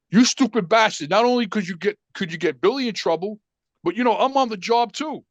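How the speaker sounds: mock outrage with moderate force; father flipping out. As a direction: imitate a dad losing his temper. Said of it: "now my father flips out".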